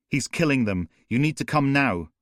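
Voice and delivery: begging the police to come now; rising panic. Acted. Caller losing control on the call.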